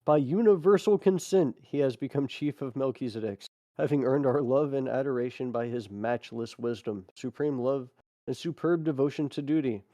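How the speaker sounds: measured, solemn reading of a record; deliberate phrasing with short pauses; formal read-aloud. Acted. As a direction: read it out like an official proclamation. Reads a text aloud.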